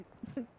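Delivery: breathy stifled giggle; breaking character giggling. Real, not acted. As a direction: crack up mid-sentence. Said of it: "I can't do it with a straight face".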